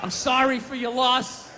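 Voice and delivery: slow, fake-solemn sympathy; mock sincere condolence. Comic to the crowd about a dead kitten, slow mock-solemn sympathy. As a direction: offer condolences with a straight face.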